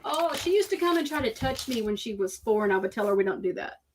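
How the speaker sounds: half-working imitation of a Cajun accent, quick at the end; lightly done Cajun accent mimicking his excuse. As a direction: try on a Cajun accent for his quote, not quite landing. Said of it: "I'm trying to do it in my Cajun accent".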